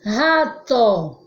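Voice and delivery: "Rato" with initial R like H; strong R. Shown as a demonstration. Teacher answers a pupil's doubt, strong h-like R in "Rato". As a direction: sound out "Rato" in two syllables, starting on breathy h. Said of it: "observar justamente o som".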